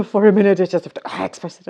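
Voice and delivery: laughing admission. Retold or imitated. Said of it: "I say".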